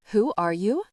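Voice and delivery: a touch of bristling challenge; mildly prickly demand. Acted. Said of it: "she bristles at me".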